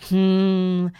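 short, polite "hm"; a discreet little hum in place of a cough; delicate throat-clearing. A narrator's reading. Mr. Gruber hesitates to offend the little bear, delicate hum. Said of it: "деликатно кашлянул мистер Крубер".

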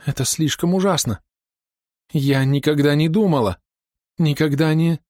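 high, breaking, horrified cry; hysterical horror. A narrator's reading. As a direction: gasp out the words in shock. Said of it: "истеричный задыхающийся крик". (в истерике, срываясь)

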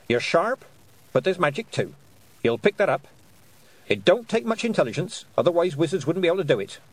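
put-on formidable old witch giving a girl her due; stern witch voice. A narrator's reading. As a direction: lay down the law with solemn respect. Weatherwax held voice.

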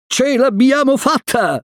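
high-pitched victorious exclamation; elated high call; triumphant cry. A narrator's reading. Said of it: "gridò Mowgli".

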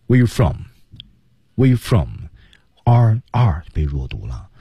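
"Where you from" with "are" swallowed into the words around it; weak "are". Shown as a demonstration. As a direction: stress "Where" and "from", barely any "are". ("Where"和"from"重读，are弱读)

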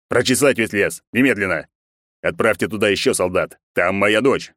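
a mild, understated growl of command; the emperor ordering a forest search for his daughter, mildly growled. Acted. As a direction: bark the order without much volume. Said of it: "прорычал император".

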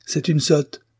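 high, sharp outburst; exasperated cry; exclaiming. A narrator's reading. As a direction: blurt it out in scorn. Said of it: "s'écria Damian".

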